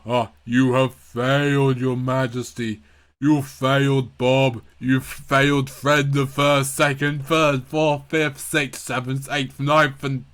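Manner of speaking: lightly voiced ghostly accusers; accusing spirits. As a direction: pronounce his failures like a tribunal. Dark world voices accuse king.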